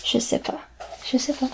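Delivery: Je sais pas said quietly as shé pas; soft casual French. Shown as a demonstration. Teacher models informal speech softly. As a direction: mumble it offhand. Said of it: "you say".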